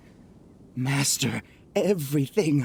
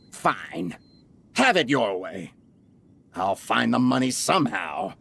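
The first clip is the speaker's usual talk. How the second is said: lower, deflated giving in; grudging defeat; 7 semitones lower than usual. Acted. Beaten merchant conceding to the young heir, deflated. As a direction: sulk as you concede.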